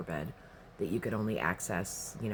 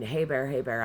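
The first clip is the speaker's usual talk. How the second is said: calling out to a bear; 4 semitones higher, 5 dB louder than usual. Retold or imitated.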